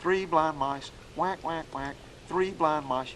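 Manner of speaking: chanted three blind mice with whack whack in the gap; sing-song rhythm, each "three" leaned on; hen mallard cadence. Shown as a demonstration. Duck call teacher demonstrating the hen cadence, chanted rhythm. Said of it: "you can do a, a hen mallard".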